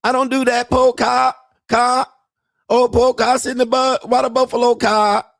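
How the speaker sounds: put-on high, broken-English Thai girlfriend voice; mock Thai accent. Mocking Thai girlfriend asking her man for money in a high accented voice. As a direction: imitate a Thai bar girl pleading for money. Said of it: "I'm bad at accents".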